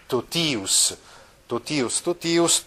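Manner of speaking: totius con la T dura, non zi; accented T sound. Shown as a demonstration. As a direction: say totius with a hard T before ius. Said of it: "si legge T". (totius letto con la T, non con la zeta)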